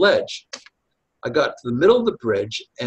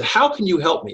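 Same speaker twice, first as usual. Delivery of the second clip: indignant; 6 semitones higher than usual. Retold or imitated. Stranger on the bridge snapping back indignantly, raised pitch. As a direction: toss it back, offended and doubtful. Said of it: "he was really indignant".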